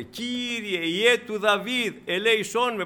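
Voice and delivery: mock calling out. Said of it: "και φώναζε".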